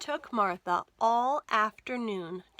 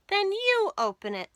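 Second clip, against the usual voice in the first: much higher, louder dare; challenging demand; 11 semitones higher, 6 dB louder than usual. Acted. Martha daring George to open the box.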